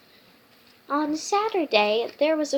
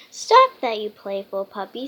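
hammed-up dad telling off; scolding dad; 2 semitones lower, 6 dB louder than usual. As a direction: playfully tell the puppy off. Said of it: "said Dad".

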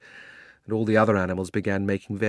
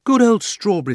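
put-on much higher, louder girl's cry; girl's delight; 11 semitones higher, 7 dB louder than usual. Polly greeting the talking horse, high and glad. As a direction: cheer the old horse like a girl. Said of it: "said Polly".

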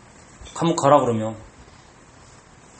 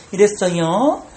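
put-on gentle with children; slower than usual. Shown as a demonstration. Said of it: "이렇게 하는 거예요".

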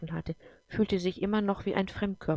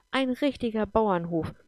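put-on higher and louder, delighted child calling out "Ein richtiger Bauernhof"; excited cry; 4 semitones higher, 4 dB louder than usual. Aurea sees the farm and calls out excitedly. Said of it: "rief Aurea begeistert".

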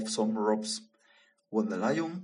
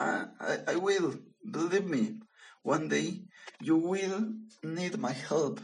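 high, fast, stammering little mouse; a tiny mouse pleading with a lion, high and quick; squeaky mouse; 5 semitones higher, faster than usual. Acted. Small mouse insists it will help.

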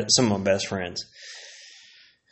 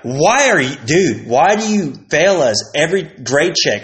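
exasperated; 4 semitones higher, 4 dB louder than usual. Retold or imitated. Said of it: "you'd be like".

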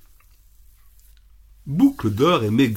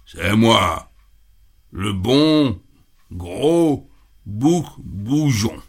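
the biggest goat, unafraid; big gruff rough voice; much slower than usual. Acted. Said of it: "de sa grosse voix rauque et déplaisante".

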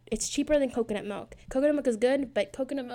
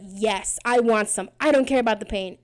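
defiant yes; 6 dB louder than usual. Retold or imitated. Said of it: "I would be like".

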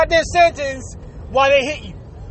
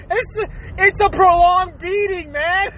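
laughing while talking; 4 semitones higher, slower than usual. Real, not acted. Laughing through the rant.

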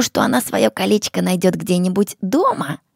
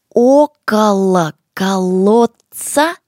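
slow, loud, every syllable clear; to someone hard of hearing; 5 dB louder, slower than usual. Shown as a demonstration. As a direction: say it slowly so they follow. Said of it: "Ещё раз я повторю медленно".

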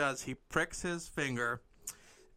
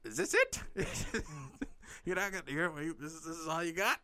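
incredulous Sharon; 3 semitones higher, faster than usual. Acted. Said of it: "Sharon's like".

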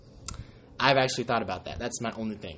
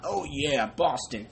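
light hint of a Boston accent; mock Boston accent; much slower than usual. Fan showing off a Boston accent, barely put on. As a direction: toss off a lazy Boston accent. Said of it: "that's my Boston accent".

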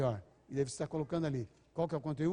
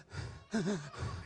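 short breathy sobs in a row; mock after-cry gasps; imitated sobbing; 5 dB quieter than usual. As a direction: mimic a baby's hiccupping sobs. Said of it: "ficou soluçando".

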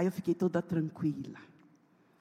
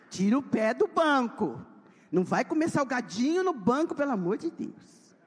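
loud mother scolding; 4 semitones higher, 4 dB louder than usual. Retold or imitated. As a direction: scold the kids off the seats. Scolding kids about car seat. (bronca alta de mãe aos filhos)

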